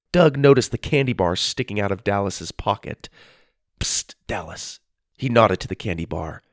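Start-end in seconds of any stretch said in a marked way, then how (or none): 3.8-4.8 hushed. A narrator's reading. Secretly signalling a friend.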